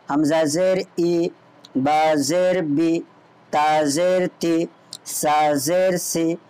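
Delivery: slow, measured spelling of each letter with zer; teacher chanting the alphabet drill for pupils; slow recitation drill. Shown as a demonstration. Teacher drills Noorani Qaida letters for students, slow and measured.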